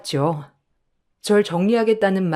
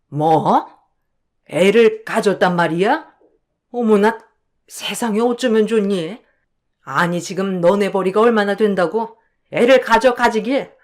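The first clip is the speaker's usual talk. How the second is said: mother-in-law, dismayed and scolding, rising on 애를 가져; shocked mother-in-law. Acted. Mother-in-law scolding her daughter-in-law over the pregnancy, mock alarm.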